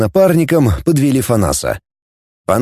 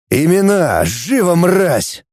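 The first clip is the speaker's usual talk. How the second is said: raised-pitch urgent interrogation; curt, contemptuous order; harsh demand; 5 semitones higher, slower than usual. Acted. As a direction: demand answers from a captive. Commander interrogating tortured prisoner.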